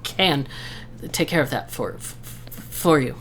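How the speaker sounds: put-on nervous stuttering old centaur. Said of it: "appears to have a bit of a stutter".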